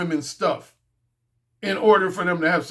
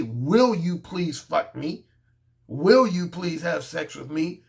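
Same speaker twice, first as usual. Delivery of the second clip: slow, lower-pitched polite ask; pleading request; 4 semitones lower, slower than usual. Acted. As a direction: ask slowly, as a timid plea. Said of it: "I don't say".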